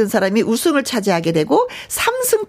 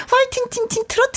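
cheery high shout; 12 semitones higher, 3 dB quieter than usual. Acted. Cheering excitedly.

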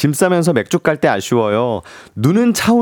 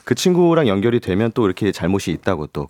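lower, measured mock lecture; logical reasoned scolding; 3 semitones lower than usual. Shown as a demonstration. Voice actor advising a friend who is at fault, logically reasoned lecture. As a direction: lay out the fault point by point, mildly. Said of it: "논리정연하게 또".

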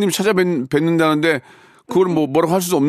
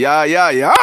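mock scolding, building to the last word; scolding demo; 4 dB louder, much slower than usual. Shown as a demonstration. Host models scolding for caller, building mock scolding. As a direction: rattle off a demonstration telling-off. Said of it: "해보세요".

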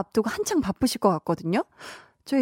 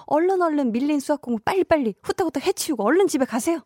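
fast urging; 5 semitones higher, faster than usual. Real, not acted. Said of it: "urging listener to hurry".

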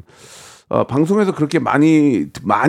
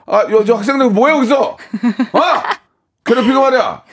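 sneering panto villain; 8 semitones higher than usual. Pretend. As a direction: taunt the passerby like a bully. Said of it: "감정을 하면서".

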